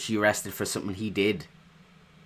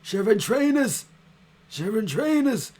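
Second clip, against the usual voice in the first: a high mock Salford accent on sharing trainers; imitating his accent; 12 semitones higher, 3 dB louder than usual. Viewer mimics the rapper's line, mock Salford accent. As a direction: copy his Manchester vowels, lightly. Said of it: "I love his accent".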